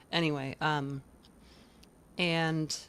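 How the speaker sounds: normal talking voice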